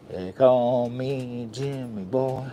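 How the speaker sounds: slow, stretched persona intro; slow put-on voice. Announcing his name to viewers in a slow, stretched put-on voice. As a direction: drag each word out, a lightly voiced stage persona. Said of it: "What is wrong with his voice?".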